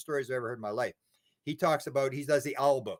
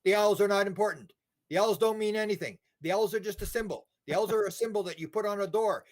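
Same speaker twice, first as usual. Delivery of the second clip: channeling voice; 6 semitones higher, 3 dB louder than usual. Retold or imitated. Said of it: "he starts channeling".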